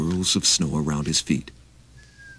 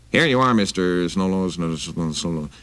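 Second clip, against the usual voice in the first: a touch of a gruff hostess; big lady voice. Acted. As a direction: demand it like a wary housewife. Big lady mangles name.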